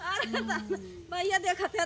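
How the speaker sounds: laughing while talking; words broken by laughter. Real, not acted. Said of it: "हंसी लागत है".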